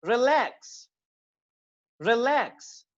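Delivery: रिलैक्स with a quick "ri" and stressed, long "LAAX"; short first syllable. Shown as a demonstration. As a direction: shorten "रि", land hard on "लैक्स" in रिलैक्स. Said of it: "री को हम short कर रहे हैं".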